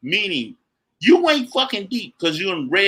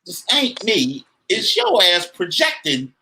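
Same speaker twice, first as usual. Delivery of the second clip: higher, firm refusal to take it; defiant inner retort; 4 semitones higher, slower than usual. Retold or imitated. Telling a critic he won't be put down. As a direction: act out brushing off someone's projection. S0 acts out his inner reply.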